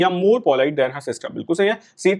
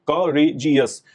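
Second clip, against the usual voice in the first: करेजियस slowly parted as ka, re, jiyas; a teacher's broken-up करेजियस, one syllable after another; 2 semitones lower, much slower than usual. Shown as a demonstration. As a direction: spell out the beats of करेजियस, ka... re... jiyas. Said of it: "जिनमें एक से ज्यादा syllables".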